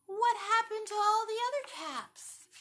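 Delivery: loud, high surprise; storyteller's big surprise; surprised. Acted. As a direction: act amazed for the children. Surprise at missing caps.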